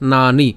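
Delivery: নানি with long "naa", short "ni"; teacher modelling নানি; syllable demo. Shown as a demonstration. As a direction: sound out নানি as a separate piece. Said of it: "এরপরে কি উচ্চারণ হবে?".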